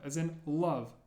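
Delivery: L di \"love\" diucapkan tebal di belakang tenggorokan; hard L. Shown as a demonstration. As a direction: ucapkan \"love\" dengan L gelap di belakang. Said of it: "is pronounced like a L sound".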